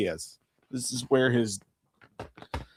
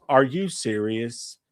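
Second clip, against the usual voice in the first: slower still, mild judgmental drawl; judgmental old lady; 2 semitones lower, much slower than usual. Retold or imitated. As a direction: stretch each word, lightly mocking her. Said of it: "most judgmental look".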